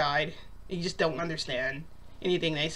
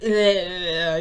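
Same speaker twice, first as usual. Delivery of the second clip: loud, drawn-out slobbery tongue noise; imitated licking noise; 6 dB louder than usual. He licks her face, sloppy licking noise. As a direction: mimic someone licking a face noisily. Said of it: "He's, like, licking my face".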